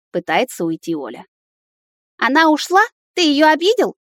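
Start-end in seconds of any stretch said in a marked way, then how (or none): 2.2-4.0 put-on higher, louder, frightened little boy; a boy accusing his dad, upset; alarmed child. A narrator's reading. A frightened son questions his father about Stesha.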